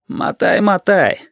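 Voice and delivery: offhand, calm send-off; calm dismissal. A narrator's reading. Captain sends the driver off, calmly. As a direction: wave him away without anger. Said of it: "отозвался капитан уже спокойно".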